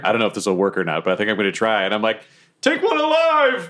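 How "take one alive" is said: yelled order. Acted. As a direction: shout the command across the battlefield. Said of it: "Can I yell over to Goblin Junior".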